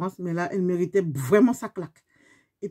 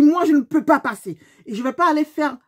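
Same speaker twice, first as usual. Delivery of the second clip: angry retort; 4 semitones higher, 5 dB louder than usual. Retold or imitated. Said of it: "je dis".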